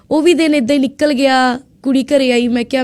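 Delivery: normal talking voice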